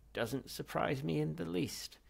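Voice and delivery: put-on slow, high, loud unimpressed old man; dry dismissal. Ghost brushing off Zaphod's danger, slow. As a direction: shrug it off slowly.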